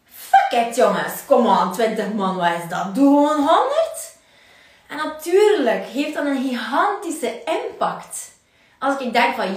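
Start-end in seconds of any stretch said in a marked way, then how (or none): 0.0-4.1 louder, cocky push; the alter ego shouting encouragement; bold alter ego. Retold or imitated. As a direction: brush off fear with bravado. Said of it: "zegt mijn alter ego van".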